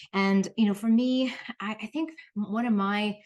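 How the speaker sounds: breathless after running upstairs; catching breath between words. Real, not acted. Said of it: "sorry, I'm out of breath".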